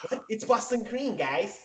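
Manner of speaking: high, hushed mock announcement; imitating absent friend. Host mimics friend announcing himself, high soft imitation. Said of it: "he was like".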